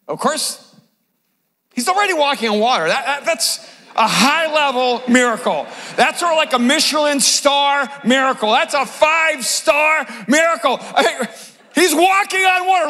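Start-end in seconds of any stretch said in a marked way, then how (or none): none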